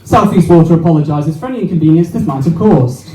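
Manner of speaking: flat official company line; corporate apology. Retold or imitated. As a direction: read it like a scripted apology. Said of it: "This is all the guy said".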